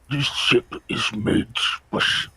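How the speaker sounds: lisping voice through barely open lips; talking with mouth closed. Acted. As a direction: speak with jaw nearly shut and a lisp. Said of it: "It's also a weird voice to do, 'cause I can't open my mouth properly".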